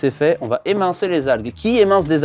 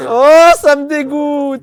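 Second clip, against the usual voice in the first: disgusted groan; 10 semitones higher, 8 dB louder, much slower than usual. Real, not acted. Reacting to surströmming stench.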